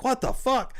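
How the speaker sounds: high-pitched exasperated outcry; mock disbelief. Russ reacting to the fake breakdown, high mock disbelief. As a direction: imitate someone utterly baffled.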